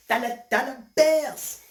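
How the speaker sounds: high, loud hustler's shout. Acted. Hustler throwing cash in the air, shouting. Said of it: "he was shouting".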